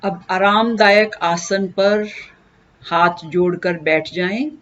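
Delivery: unhurried instruction with long pauses; guided meditation. Acted. Teacher leading listeners into breath meditation, calm guided delivery. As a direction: guide them gently into stillness, pausing between steps.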